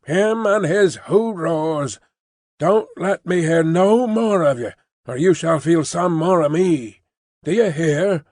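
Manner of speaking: put-on slow, stern warning to a boy; father threatening young Jerry, stern and cross. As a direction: warn him off with a threat. Father threatening his son.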